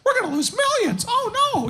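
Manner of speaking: hammed-up fretting wife in falsetto; high panicky wife. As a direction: squeal the worry, then "oh no". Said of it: "she doesn't talk like that".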